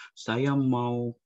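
mock foreign tourist, drawn out; foreigner mispronouncing. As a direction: play a foreigner fumbling the word. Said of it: "Misalkan dia bilang".

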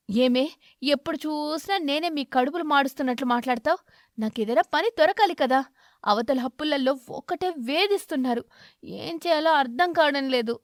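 irritated husband raising his voice; angry. Acted. Crow snapping at his wife about food. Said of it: "కాకి కోపంగా చెప్పి".

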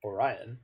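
Orion said alone as oh-RYE-un; word within name. Shown as a demonstration. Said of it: "the word Orion is there".

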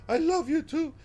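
put-on high, sweet old-woman voice; Grandma's voice. Streamer imitating Grandma's high loving whisper-voice. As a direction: coo it like a ghostly grandma. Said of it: "That's how she sounds".

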